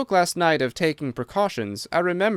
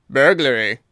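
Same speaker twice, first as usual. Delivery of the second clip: crying out; 6 dB louder than usual. A narrator's reading. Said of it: "cried the Colonel".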